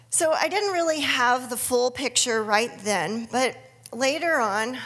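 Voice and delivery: normal talking voice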